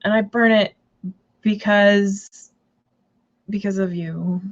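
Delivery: slow, deadpan mock comeback; lightly acted dry sarcasm; slow sarcastic retort. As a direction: drag it out to needle him. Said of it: "I was just like".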